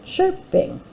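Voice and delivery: each word slow and loud with long gaps; teacher dictating while the class writes; word-by-word dictation. Shown as a demonstration. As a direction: dictate one word at a time for writing. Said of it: "Let's go ahead and do that together".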